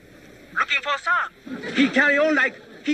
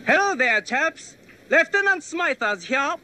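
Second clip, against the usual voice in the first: mock British officer; 3 semitones higher than usual. The speaker poses as British officer.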